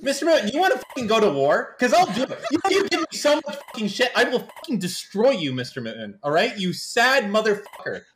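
playful fake fury at a co-host; mock threat. Host jokingly threatening Mister Moon on the panel, mock anger.

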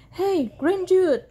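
high, loud cow greeting; lightly voiced storybook cows; mewing cows. A narrator's reading. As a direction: call out like friendly cows. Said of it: "mewed some friendly cows".

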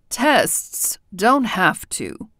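very slow, weary and worn out; tired voice. Acted. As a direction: drag it out like you haven't slept. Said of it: "a tired voice said".

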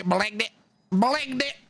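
garbled imitation of a bad Jamaican accent; mimicked botched Jamaican accent. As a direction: mimic someone badly attempting Jamaican. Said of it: "What is that person trying to say when she goes".

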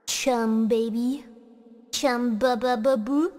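slow, drawn-out cooing chant; slow baby talk. Pretend. Shark girl cooing at her chum, slow baby talk. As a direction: coo it slowly like baby talk.

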